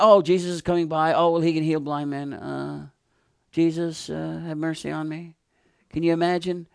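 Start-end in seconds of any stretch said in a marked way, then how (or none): 0.0-5.4 tossed-off, half-hearted call to Jesus; lazy, indifferent request; casual, offhand plea. Acted. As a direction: mumble it without caring, trailing off at the end. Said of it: "it just wasn't a casual thing".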